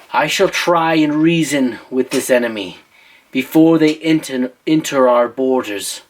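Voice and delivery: put-on light British accent for a young king; a touch of stately British English; measured, mildly put-on British accent. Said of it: "I don't know why I'm doing the accent".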